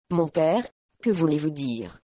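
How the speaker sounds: mild narrated fear, stammered to her father; trembling stammer. A narrator's reading. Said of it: "balbutia-t-elle, tremblante".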